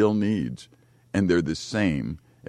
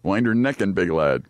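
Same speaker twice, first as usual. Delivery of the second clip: mock Northern Irish; 3 dB louder than usual. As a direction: copy a Northern Irish phrase playfully. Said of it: "I'm fluent now in something".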